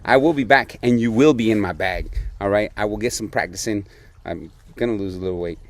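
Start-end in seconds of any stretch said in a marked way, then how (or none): 0.0-2.1 playful threat. Real, not acted. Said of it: "Did I say bag?".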